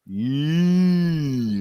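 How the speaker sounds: high, loud drawn-out cartoon squeal; Bugs Bunny. Joking about losing to the Steelers, Bugs Bunny impression. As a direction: stretch it into a loud cartoon "yee". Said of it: "I'm doing the Bugs Bunny".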